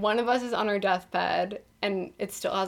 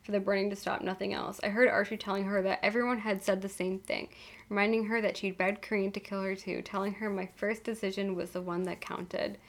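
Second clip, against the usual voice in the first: soft, even audiobook reading; measured reading with lightly acted dialogue; story narration; 6 dB quieter than usual. A narrator's reading. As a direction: read the story aloud with understated drama.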